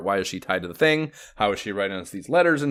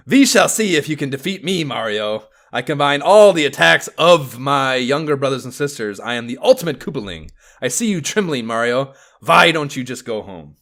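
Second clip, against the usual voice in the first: put-on villain taunt in a German accent, higher and louder; Ludwig German accent; 5 semitones higher, 7 dB louder than usual. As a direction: sneer at Mario in a hammy German accent. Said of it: "a German accent".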